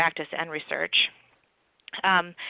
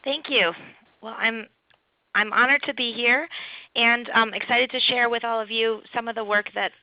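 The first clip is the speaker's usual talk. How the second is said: hoarse from a cough. Real, not acted. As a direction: speak through a rough, coughy throat. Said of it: "I'm sorry I have a cough, so this doesn't sound like my usual voice".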